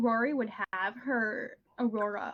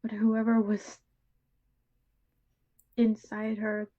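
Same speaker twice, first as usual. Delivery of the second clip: grave confiding character. Acted. Character confiding that it wasn't really Mary, halting monotone. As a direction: confide it piece by piece, with long pauses.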